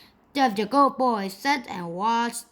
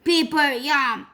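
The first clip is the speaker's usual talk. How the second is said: hungry monster; 5 semitones higher, 4 dB louder than usual. A narrator's reading. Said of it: "roared the sea monster".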